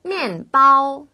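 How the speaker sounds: 面 falls sharply from high, 包 held high and level; fourth-first tones. Shown as a demonstration. Teacher models tones for learners, 面 falling, 包 high level. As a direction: say 面包 with a steep drop, then a loud level high tone. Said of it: "위에서 아래로 뚝 떨어지는 느낌으로".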